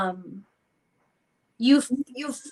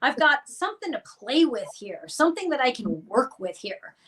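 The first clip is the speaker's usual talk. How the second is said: lightly mocked eager thrill, pitched up; eager delight; 4 semitones higher than usual. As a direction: play the new toy finally in hand.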